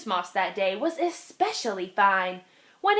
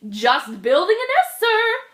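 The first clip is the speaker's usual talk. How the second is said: little bird; 8 semitones higher, 5 dB louder than usual. Acted. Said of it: "the little Zinazoo said".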